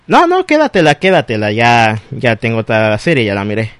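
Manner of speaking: polite refusal to an ex; brushing off the ex. Acted. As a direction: wave the caller off, settling into a low dismissal. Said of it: "Y tú le dices".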